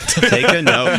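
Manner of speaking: slow, laughing repeat. Real, not acted. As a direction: say it through laughter, slowly.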